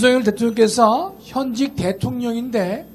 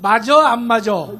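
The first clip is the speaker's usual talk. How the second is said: Gyeonggi speech; 6 dB louder than usual. Retold or imitated. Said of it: "경기도 이론은".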